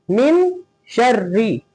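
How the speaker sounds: slow "मिन शर्री" with a light doubled r; thin ra. Shown as a demonstration. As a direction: demonstrate fine r in "शर्री", drawn out. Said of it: "बारीक पढ़ेंगे".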